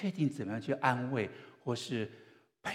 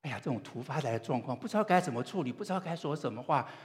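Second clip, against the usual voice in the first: higher, rising mock fluster; acted-out alarm, getting louder; flustered group reaction; 5 semitones higher, 4 dB louder, faster than usual. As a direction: voice the group at a loss, pitch climbing. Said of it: "一下愣住了".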